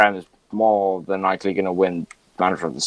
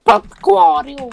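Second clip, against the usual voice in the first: put-on jokey Scouse accent, much higher; 5 dB louder than usual. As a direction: throw the name out in a Scouse accent for a laugh. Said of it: "Why did they do a Scouse accent?".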